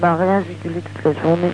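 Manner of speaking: raspy voice worn out from shouting; hoarse after a day of yelling. Real, not acted. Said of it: "je la vois cassée".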